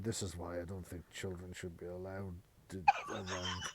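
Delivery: grumpy muttering under the breath. Voicing a grumpy man muttering as he climbs the stairs: grumpy muttering. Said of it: "you can hear him muttering".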